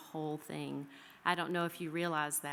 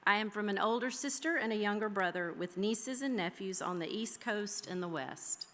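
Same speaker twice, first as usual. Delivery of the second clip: measured, heartfelt poem reading; lightly lyrical recitation, pausing between images; poem recital. Acted. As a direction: read each "I am from" line like a keepsake. Reads her "I am from" poem.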